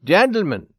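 big hailing voice; crying out. A narrator's reading. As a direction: call out to the men as the Swede. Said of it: "the Swede cried to the men at the table".

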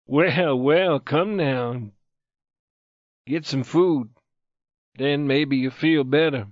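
gently soothing, unhurried; soft answer. A narrator's reading. Friend calming the irritated wounded youth, softly. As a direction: coax him kindly, with no edge. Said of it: "His friend answered softly".

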